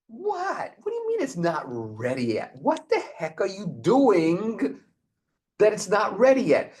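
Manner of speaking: high squeak of disbelief, then a mock protest; a startled, indignant what; incredulous Moses. Moses protesting to God that the Torah is not ready, incredulous.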